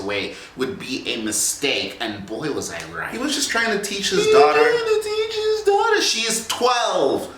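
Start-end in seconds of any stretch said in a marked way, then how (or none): 3.1-7.3 indignant shouting. Acted. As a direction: shout it in disbelief. Heated argument between personas.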